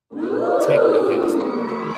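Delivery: "Technocasting" stretched very slow in a very high breathy voice; "Technocasting" sung out high, airy and drawn out; dramatic reveal. Acted. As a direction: unveil "Technocasting" like a grand magic word. Unveiling the new concept's name.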